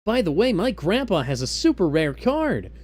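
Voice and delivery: hammed-up abridged character, Groovy belted out; cartoon voice. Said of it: "in the voices".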